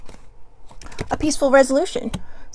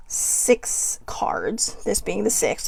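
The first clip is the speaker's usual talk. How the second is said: whispered aside; 2 semitones lower, 5 dB quieter, much slower than usual. Real, not acted.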